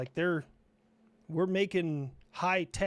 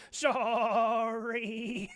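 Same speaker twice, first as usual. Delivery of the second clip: talking rifle; 4 semitones higher than usual. Pretend. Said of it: "it just goes".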